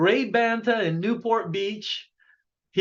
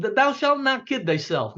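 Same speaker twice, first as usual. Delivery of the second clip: mock commandment; 4 semitones higher than usual. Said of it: "Don't forget the eleventh commandment".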